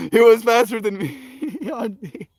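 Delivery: high, laughing retelling; real laughter mid-story; laughing through words. Real, not acted. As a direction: giggle it out.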